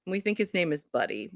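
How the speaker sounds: usual speaking voice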